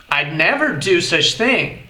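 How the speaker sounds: "I'd" with the d barely sounded before "never"; subtle contraction. Shown as a demonstration. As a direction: let the d in "I'd" almost vanish into "never". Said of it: "Percebeu como o som do D ... fica bem sutil".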